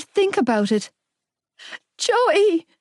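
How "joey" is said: high, anxious call; voice cracking. A narrator's reading. Young woman afraid for her boyfriend, voice cracking. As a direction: call his name on the edge of breaking. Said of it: "My voice cracked".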